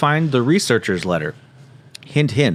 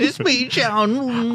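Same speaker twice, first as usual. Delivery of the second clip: nerdy John voice; much slower than usual. Acted. Imitating John's voice.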